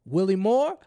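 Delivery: loud call with a rising end; big, projected impression of Barack Obama; presidential greeting. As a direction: imitate the president booming a name. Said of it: "he gets on the line and he says".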